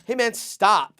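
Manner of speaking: retold protest. Bystander to man yelling at homeless guy, high protest. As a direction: pitch it up to step in.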